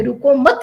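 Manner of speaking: "रुको मत" as one unit with weight on "मत"; stop after मत. Shown as a demonstration. Teacher showing the wrong comma, stop after "मत". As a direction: join "रुको मत" in one run, landing on "मत". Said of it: "के बाद विराम चिन्ह लग दिया".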